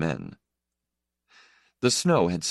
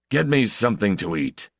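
shouting; 6 semitones higher, 3 dB louder than usual. Acted. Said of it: "he shouted".

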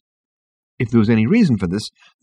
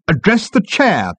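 high, drawn-out officious snap; snapped; 11 semitones higher, slower than usual. A narrator's reading. Management consultant corrects Ford, snapping. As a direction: snap it as a procedural order. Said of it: "snapped the management consultant".

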